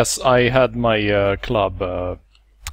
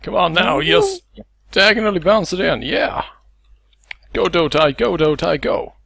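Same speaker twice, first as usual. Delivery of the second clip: cheering; 5 semitones higher than usual. Real, not acted. Cheering on teammate in game.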